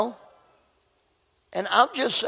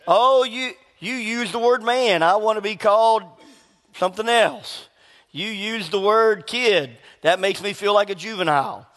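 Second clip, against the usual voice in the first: mock offended; 2 semitones higher than usual. Preacher parodying people offended by words, mock offended. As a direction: imitate someone taking offence at a word.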